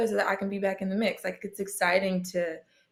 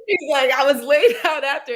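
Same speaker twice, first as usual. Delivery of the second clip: louder, laughing as she talks; telling it while laughing; laughing through it; 6 semitones higher, 8 dB louder than usual. Real, not acted. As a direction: let laughter break the words.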